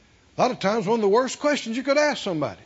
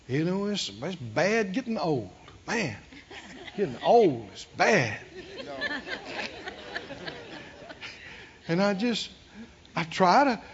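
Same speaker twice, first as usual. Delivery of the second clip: put-on softer, lower, self-pitying old person; weak old complainer; 3 semitones lower, 5 dB quieter than usual. Pastor imitating an elderly church member whining, soft and low. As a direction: moan about age and loneliness. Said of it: "Let the weak say".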